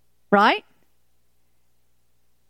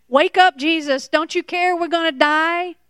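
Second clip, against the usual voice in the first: panicked cry; 5 semitones higher than usual. Retold or imitated. Frightened disciples cry out to sleeping Jesus, panicked.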